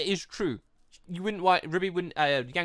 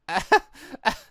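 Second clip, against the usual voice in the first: laugh; 5 semitones higher, 6 dB louder than usual. Real, not acted. Laughs at own scene.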